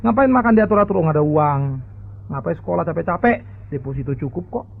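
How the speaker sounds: lightly voiced brash son, loud and mocking; cheeky spoiled son. Spoiled rich kid retorts to his father, smug. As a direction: flaunt it carelessly. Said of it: "dia mengatakan seperti ini loh".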